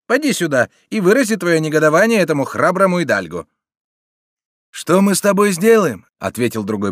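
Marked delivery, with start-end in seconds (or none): 0.0-3.5 jeering bandit. A narrator's reading. Bandit mocks the captive noble. 4.7-6.0 high, loud sneering question; scornful bandit. A narrator's reading. Bandit answers the captive.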